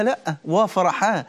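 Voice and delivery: slow, gentle joy at meeting God; mild glad calm; joyful reply. Pretend. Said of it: "أقول لها".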